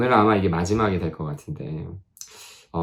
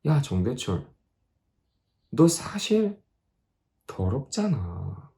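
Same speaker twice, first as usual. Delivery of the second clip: inner realization; 3 semitones higher, 4 dB quieter, slower than usual. Retold or imitated. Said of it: "문득 생각이 하나 든 거예요".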